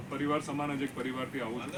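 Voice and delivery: soft, hard-to-hear intro line; too quiet to hear. Real, not acted. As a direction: says it too softly for the room. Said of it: "સંભળાતું નથી?". (ધીમા અવાજે, સંભળાય નહીં એવું)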